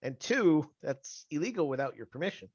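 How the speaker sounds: shocked no, rising then settling; surprised denial. Retold or imitated. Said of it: "I'll be like".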